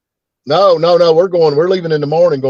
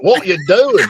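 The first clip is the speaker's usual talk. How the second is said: imitating Australian accent; 4 semitones higher, slower than usual. Shown as a demonstration. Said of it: "I'm getting it".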